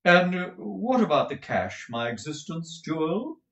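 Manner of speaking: high, loud, gushing dandy husband; a flamboyant husband fussing over money; Mantalini's voice. Acted. Mantalini asks his wife about the cash, high and gushing.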